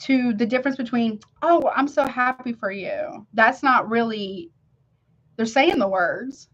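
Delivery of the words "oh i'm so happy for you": slow, unenthused "Oh, I'm so happy for you"; dutiful congratulations with no excitement, said slowly; half-hearted congratulations. Shown as a demonstration. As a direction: say the words with none of the feeling behind them. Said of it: "but the emotion don't match the words".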